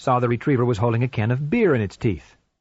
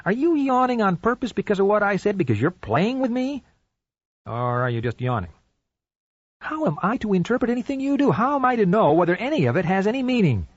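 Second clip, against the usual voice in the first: pitched-up, baffled pleading; exasperated; 9 semitones higher than usual. Acted. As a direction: ask in rising exasperation. Man baffled by dog's behavior.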